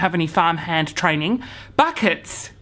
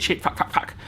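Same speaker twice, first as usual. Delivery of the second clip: whispered panic; 5 dB quieter than usual. Retold or imitated. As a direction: swear under the breath, fading to a whisper. Horse turns toward him, panicking.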